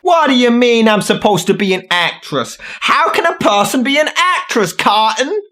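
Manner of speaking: lightly imitating the whiny film line; a hint of the actress's whine; mocking parody. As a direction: parrot the actress's whine back at her. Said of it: "parodies clip line "person be an egg".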